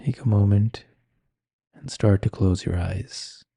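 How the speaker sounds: calm, unhurried meditation guiding with long pauses; guided meditation. Acted. Meditation teacher settles listeners with eyes closed, calm guiding voice. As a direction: ease listeners inward, leaving space between phrases.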